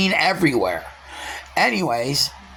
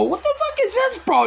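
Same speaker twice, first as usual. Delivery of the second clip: much higher, shouting with a laugh in it; retold shout. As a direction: yell it at him, half laughing.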